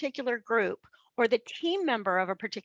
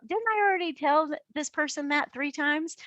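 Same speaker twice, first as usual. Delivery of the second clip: exasperated thought; 6 semitones higher than usual. Retold or imitated. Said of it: "think to yourself".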